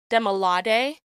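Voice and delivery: first Demilade as de-mi-LA-de, English stress; stress only. Shown as a demonstration. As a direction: say Demilade with weight on LA, no tones. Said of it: "there's a difference between saying".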